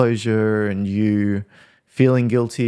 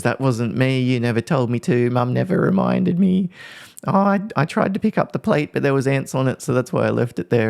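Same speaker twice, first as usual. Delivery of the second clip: put-on higher, rising kid's voice piling up excuses; whiny kid excuses; 4 semitones higher than usual. Son excusing himself to mum, whiny and high. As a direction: play the son wriggling out of blame, pitch climbing.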